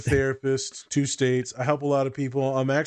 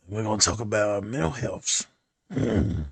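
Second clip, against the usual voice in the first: sultry narrator; 5 semitones lower than usual. Pretend. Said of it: "I'm gonna talk in my sexy voice".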